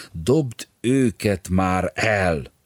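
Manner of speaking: loud, slow begging from a friend; pleading demand. Acted. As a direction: beg him to throw them away. Bodor begging Bolyai.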